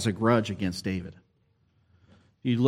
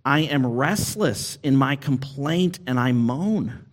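moaning complaint; 3 semitones higher than usual. Retold or imitated. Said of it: "he says".

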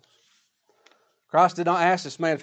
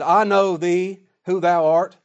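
demon voice; 3 semitones higher, 9 dB louder, slower than usual. Retold or imitated. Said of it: "These are the demons speaking".

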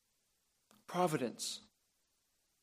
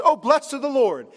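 higher, louder mock gush of blessing; greedy fawning Laban; 7 semitones higher, 5 dB louder than usual. Laban rushes out to greet the rich servant, higher and louder in mock gushing. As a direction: lay it on thick like a flatterer. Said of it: "he runs out and comes and says".

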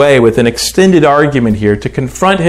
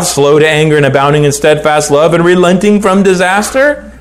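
angry prayer; 5 semitones higher than usual. Acted. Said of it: "And he was angry".

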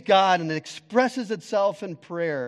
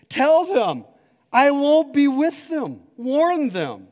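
God's warning; 10 semitones higher, 9 dB louder, slower than usual. Acted.

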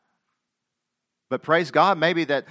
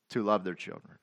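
quiet echo; 8 semitones lower, 8 dB quieter than usual. Shown as a demonstration. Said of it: "and to love their children".

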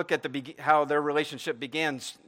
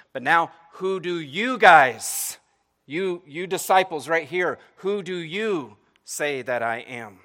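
slow, pressing question, louder at the start; voicing Jesus; 2 semitones higher, 6 dB louder, slower than usual. Jesus pressing his disciples for their own answer, slow and earnest.

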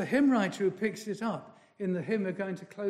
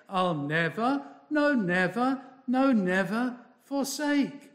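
"no, never" rising higher each time; stressed nevers; 3 semitones higher than usual. Shown as a demonstration. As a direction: build weight across "no, never, no, never forsake". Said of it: "He actually puts in the nevers".

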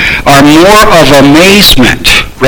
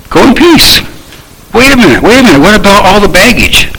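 mock astonishment; 5 semitones higher than usual. Mock objection to grace.

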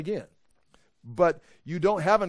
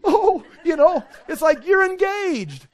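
laughing with delight; 12 semitones higher, 8 dB louder, slower than usual. Acted. Teacher overjoyed, laughing.

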